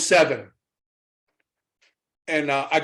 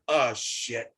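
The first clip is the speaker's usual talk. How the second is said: mock dismay; 6 semitones lower, 8 dB quieter than usual. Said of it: "and they went".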